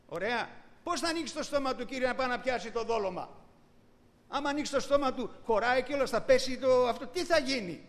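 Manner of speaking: building disbelief, asking the Lord how it works; incredulous objection. Retold or imitated. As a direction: play the sceptic poking holes in the miracle. Preacher voices a doubting believer.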